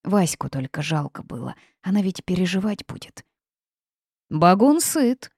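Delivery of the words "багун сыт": slow, loud, higher-pitched bog monster voice; swamp creature. A narrator's reading. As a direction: draw it out like a sated swamp beast. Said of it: "заявил болотник".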